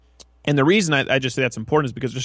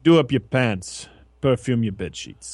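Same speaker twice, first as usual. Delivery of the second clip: slow theatrical villain menace. Retold or imitated. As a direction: menace it out like a TV heavy. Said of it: "It was my imitation of, like, a bad guy from a Quinn Martin production".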